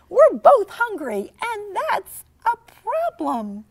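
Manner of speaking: voiced girl. Jessica voiced in story.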